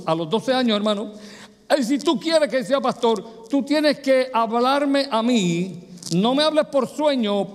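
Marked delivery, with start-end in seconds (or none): 1.8-7.5 insistent demand. Retold or imitated. Preacher retells his bargain with God.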